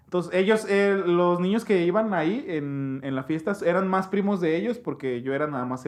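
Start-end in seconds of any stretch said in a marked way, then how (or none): none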